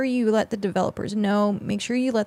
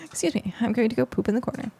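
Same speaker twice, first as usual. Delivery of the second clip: laughing; faster than usual. Real, not acted. Rereading chat message, laughing.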